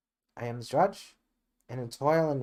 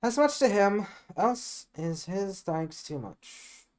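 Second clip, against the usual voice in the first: put-on bright girlish reply; 7 semitones higher, 3 dB louder than usual. Juliet high and bright.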